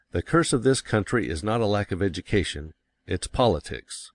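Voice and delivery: curse, lack, education and politics hit hard, the other words hurried over; stress on curse, lack, education, politics. Retold or imitated. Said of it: "He emphasized curse, lack, education, politics".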